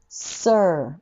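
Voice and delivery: sir drawn out very slowly, er held long. Shown as a demonstration. Teacher slowly modelling sir for students. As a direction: stretch sir out slowly so the er is heard. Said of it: "これ同じ音なんですよ".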